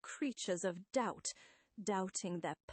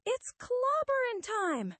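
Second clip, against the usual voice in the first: high, loud rallying cry; battle yell; 7 dB louder than usual. Acted. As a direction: yell it to scare off an attacker. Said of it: "Maybe if I yell".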